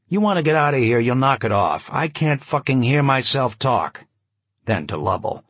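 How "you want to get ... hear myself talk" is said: annoyed. Acted. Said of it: "genuinely annoyed".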